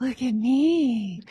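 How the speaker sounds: airy, breathy voice, me drawn out. A running joke on the speaker's channel, said with a very breathy voice. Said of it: "I have to say it like this. ... It's very breathy".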